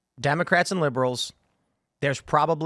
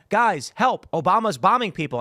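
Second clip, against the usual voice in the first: urgent, a bit higher call for help; alarmed plea; 4 semitones higher than usual. Retold or imitated. Telling anti-war friends, mildly alarmed. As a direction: hurry them, half alarmed. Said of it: "and I said".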